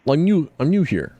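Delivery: put-on half-slipping Russian accent, caught mid-line; slip into a Russian accent. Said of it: "I almost gave myself a Russian accent".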